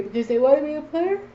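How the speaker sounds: high, fast disbelief; incredulous. Real, not acted. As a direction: scoff at the idea. Incredulous mock of player.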